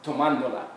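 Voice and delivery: "tomándola" with the stress on "mán"; stress on accented syllable. Shown as a demonstration. Teacher showing where the accent mark falls, "tomándola" stressed on "mán". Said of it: "where we need to stress the word".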